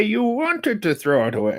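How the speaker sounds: put-on a deliberately terrible German accent; Freud accent. Cohost imitating the psychoanalyst for the host, in a bad German accent. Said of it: "That's a terrible accent".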